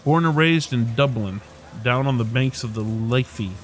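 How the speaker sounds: put-on lightly lilting Irish accent; Dublin accent. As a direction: put on a mild Dublin brogue. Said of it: "I can't place the accent".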